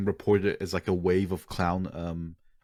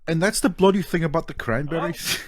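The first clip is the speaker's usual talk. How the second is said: high-pitched parody of a public intellectual; mock-outraged celebrity impression; Jordan Peterson; 8 semitones higher than usual. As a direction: lecture indignantly in a put-on higher voice. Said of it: "Jordan Peterson finds out".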